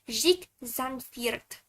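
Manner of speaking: Russian accent. Shown as a demonstration. Streamer says their name the Russian way, Russian accent. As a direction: say Jake Sunbeard as "Zhik Zanfirk", with a Russian accent. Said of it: "pronounce it in Russian".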